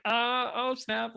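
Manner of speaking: high, loud, drawn-out mock reaction; retold excitement. Reacting to the script coordinator's offer, retold excitement. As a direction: stretch it out in thrilled surprise, retelling. Retelling own thrilled reaction to Chris.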